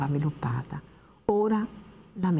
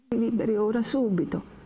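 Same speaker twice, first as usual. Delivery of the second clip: urgent plea; 6 semitones higher than usual. Acted. Lucia begs urgently.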